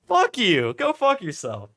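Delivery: loud high angry yell; angry shout. Real, not acted. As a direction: yell it like you mean it. Heated rant at commenters.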